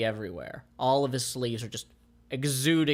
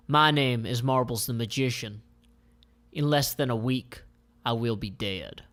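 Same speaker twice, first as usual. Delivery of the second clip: dramatic monologue read. Acted. Narrator reads the comic's opening monologue, dramatic. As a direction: read it like a dark noir opening. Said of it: "read the monologue for this".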